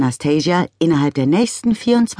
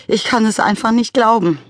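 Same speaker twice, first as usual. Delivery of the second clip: sniffling, pitched up in grief; 8 semitones higher, 3 dB louder than usual. A narrator's reading. Father grieving his plant, sniffling. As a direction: sniff the words out, close to tears. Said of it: "schniefte Mister McCrumpet".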